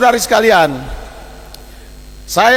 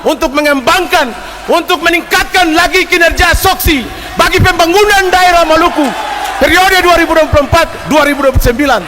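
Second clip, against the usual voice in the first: fervent rising praise; 3 semitones higher than usual. Real, not acted. Speaker fervently praises new chairman.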